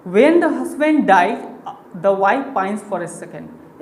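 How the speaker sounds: slow, measured reading of the saying; slow recitation. Shown as a demonstration. Teacher reciting his old teacher's saying, slowly. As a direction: read the line word by word. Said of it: "मेरे teacher हमेशा ये बताया करते थे".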